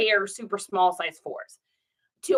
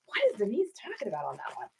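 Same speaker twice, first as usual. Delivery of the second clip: mock confusion. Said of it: "I was like".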